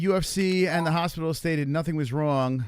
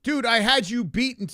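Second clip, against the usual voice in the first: high, louder frustrated protest; outraged; 9 semitones higher, 4 dB louder than usual. Real, not acted. Player just beaten on the river, high frustrated protest. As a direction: vent at the opponent.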